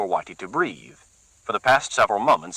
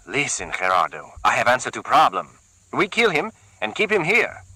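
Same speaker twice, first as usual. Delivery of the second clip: higher, rushed with eagerness; eager; 5 semitones higher than usual. Acted. Carlos excitedly pitching his plan to Gerardo, eager. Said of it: "he said eagerly".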